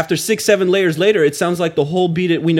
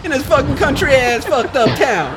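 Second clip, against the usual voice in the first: ghetto reporter voice; 11 semitones higher than usual. Retold or imitated. Imitating the reporter's rant.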